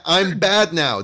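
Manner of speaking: high, loud cartoonish villain line; mock "I'm bad now" sketch voice. Friend quotes the sketch to the host, high mock villain voice. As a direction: ham up the bad-guy confession, pitched high. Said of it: "they're doing your sketch".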